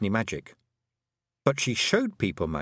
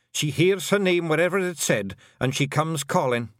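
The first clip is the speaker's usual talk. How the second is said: higher Scottish clan chief, wary; Rob Anybody voice; 7 semitones higher, 3 dB louder than usual. A narrator's reading. Rob Anybody warily asking Tiffany, high Scottish voice. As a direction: ask it like a nervous wee chief.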